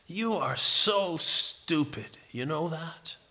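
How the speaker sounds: put-on slow, contemptuous put-down to a child; irritated. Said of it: "he wasn't enraged, he was irritated".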